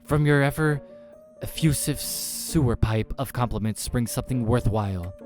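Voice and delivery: high, loud gushing compliments starting big; effusive flatterer. Acted. Man flatters the demon.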